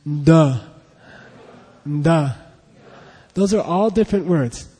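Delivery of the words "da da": 'Da' with a nasal N in front; French-style nasal onset. Shown as a demonstration. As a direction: hum N through the nose into 'Da'. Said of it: "I'll be, I'll be French".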